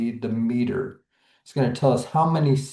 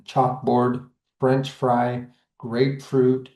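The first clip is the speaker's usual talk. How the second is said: "chalkboard, French fry, grapefruit", weight on both halves; two even beats: CHALK-BOARD, FRENCH FRY, GRAPE-FRUIT; both syllables stressed. Shown as a demonstration. Teacher showing spondees to students, both syllables stressed. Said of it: "both parts".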